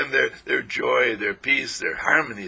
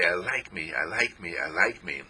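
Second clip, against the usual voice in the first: soft affirmation; 4 semitones lower than usual. Shown as a demonstration. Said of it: "skin and say".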